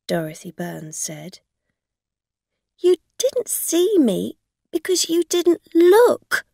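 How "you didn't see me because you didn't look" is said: higher, louder angry retort; angrily. Acted. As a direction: throw it back at her, angry and loud. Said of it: "Rosa said angrily".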